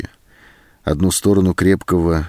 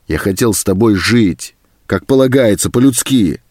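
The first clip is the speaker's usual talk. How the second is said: rising, higher-pitched grievance; aggrieved outburst; 3 semitones higher, 3 dB louder than usual. Acted. Captor telling the woman what he wanted, aggrieved. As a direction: press the grievance harder as it climbs.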